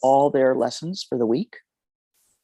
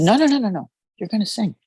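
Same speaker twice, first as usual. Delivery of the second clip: adamant refusal; 8 semitones higher, faster than usual. Retold or imitated. Teacher refuses to let the crying student quit, adamant. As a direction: cut her off, won't hear it.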